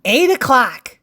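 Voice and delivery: punchy call of the hour; crisp announced clock time; time announcement. Acted. Calls out story time.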